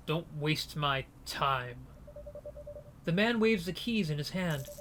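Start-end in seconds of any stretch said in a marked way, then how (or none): 0.1-1.9 slow, softer cold threat; a hint of a bored gangster, drawn out slowly. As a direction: gangster dismissing the prisoners, slow.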